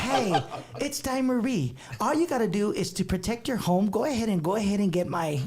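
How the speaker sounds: man doing a high woman's voice; high falsetto lady pitch; Dime Marie girl voice. Acted. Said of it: "can we do the girl voice?".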